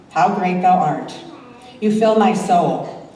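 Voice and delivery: reading a heartfelt devotional poem. Acted. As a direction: read the hymn poem like a prayer. Reads emotional hymn poem.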